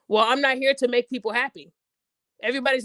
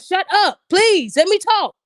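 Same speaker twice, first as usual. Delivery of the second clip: exasperated plea; 6 semitones higher, 7 dB louder, slower than usual. Retold or imitated. Man voiced pleading to speak.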